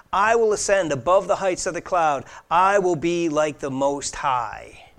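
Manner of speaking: each "I" punched at the start of the phrase; stress on I. Acted. Preacher quoting Lucifer's five "I wills", stressing each "I". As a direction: lean hard on "I" in every boast. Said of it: "Notice the emphasis on the word "I".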